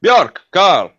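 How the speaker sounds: loud sharp call to the wolves. Acted. Volotej calls the wolves.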